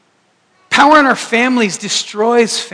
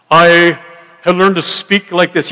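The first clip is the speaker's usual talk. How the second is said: louder, hammed-up pulpit delivery; mock preacher voice; 5 dB louder than usual. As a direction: parody a self-important preacher. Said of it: "preachers that have a preaching voice".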